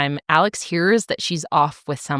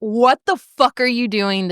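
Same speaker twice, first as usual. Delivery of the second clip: mock outraged confrontation; 4 semitones higher than usual. Lily confronting Giuseppe at the party, mock outrage. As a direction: imitate indignant disbelief, a bit higher.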